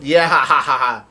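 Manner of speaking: imitated whoop into spelt-out laughter; Luffy yelling laugh. Luffy reacts to the monster cat, imitated yelling laugh. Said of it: "Luffy starts yelling out".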